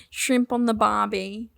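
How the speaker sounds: lightly faked Aussie catchphrase; mock Australian accent. Shown as a demonstration. The only phrase she can say, mock Australian. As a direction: toss it off in fake Australian. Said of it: "it's like I could only say".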